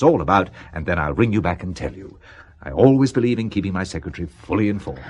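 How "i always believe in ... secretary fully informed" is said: mock-earnest assurance; sarcastic. Boss sarcastically promising to keep his secretary informed. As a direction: lay the irony on gently. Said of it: "You're being sarcastic again".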